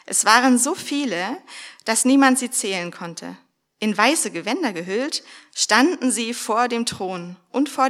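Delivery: a preacher proclaiming the text to the congregation; solemn scripture reading. Acted. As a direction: read the vision out with weight. Reads Revelation aloud.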